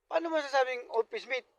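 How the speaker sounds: loud punchline. Acted. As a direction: nail him with the punchline. Wife's punchline accusation. (malakas na sumbat ng asawa)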